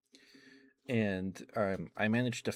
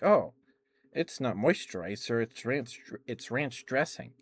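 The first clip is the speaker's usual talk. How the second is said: high, loud "oh," easing afterwards; surprised; 4 semitones higher, 3 dB louder than usual. Retold or imitated. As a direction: retell a sudden comic realisation. Acted surprise at dream discovery.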